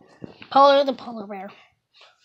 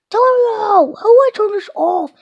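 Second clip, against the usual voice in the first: loud, high call across the room; 10 semitones higher, 9 dB louder than usual. Real, not acted. Kid calling Antonio to turn the camera off, loud. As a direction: shout for Antonio to come help.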